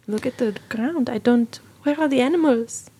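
panicky. Acted. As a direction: let the fear build into alarm. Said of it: "getting a little panicky".

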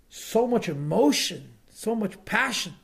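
"emotion" and "passion" drawn out with a high swoop; slow, lilting stress on "emotion" and "passion"; explained intonation. Retold or imitated. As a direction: translate with the same musical lilt on "emotion" and "passion". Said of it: "the music of these words".

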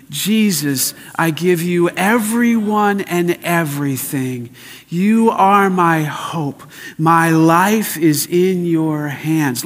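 slow, drawn-out recitation in full voice; led prayer. Shown as a demonstration. Preacher leading the congregation, hands open, slow and declarative. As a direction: stretch every phrase for a crowd to follow.

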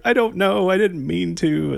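put-on high, slow, tearful little-girl voice; mock the daughter's teary excuse; imitating a crying child. Father retells daughter caught misbehaving, high and tearful. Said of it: "She starts crying. She's like".

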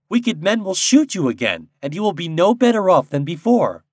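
high, loud character voice; Nuke reasoning. A narrator's reading. Popopo to the birds, warning earnestly. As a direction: warn them as the Nuke.

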